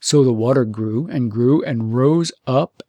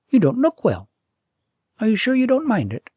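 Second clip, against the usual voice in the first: higher, lightly voiced princess, concerned; 9 semitones higher, 4 dB louder than usual. A narrator's reading. Princess notices he looks ill.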